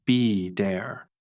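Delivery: "be dare" drawn out slowly with a soft D; slow demo of "be dare", American soft D for the T. Shown as a demonstration. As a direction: say "be dare" in two slow parts, D in the middle. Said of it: "it sounds like a soft D".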